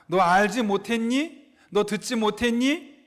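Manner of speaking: slow, pointed rhetorical questions; God questioning his people, lightly voiced; asking back. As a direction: mildly challenge them with a drawn-out question. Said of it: "이렇게 반문하고 계십니다".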